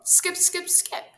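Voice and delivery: high, loud rhythmic chant; shouting. A narrator's reading. Squirrel arguing with rabbit over coaching, shouting. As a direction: shout each word insistently. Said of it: "shouted Squirrel".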